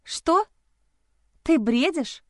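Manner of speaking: shocked she blurts it; blurted out. A narrator's reading. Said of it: "выпалила я". (выпалила удивлённо, голос выше)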